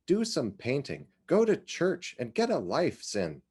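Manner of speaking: a hint of a fretting mother, pushing; impatient and worried. Mother urging Cynthia to get a life, mildly impatient and worried. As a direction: nag her gently but with worry underneath. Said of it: "her mother's voice, impatient and worried".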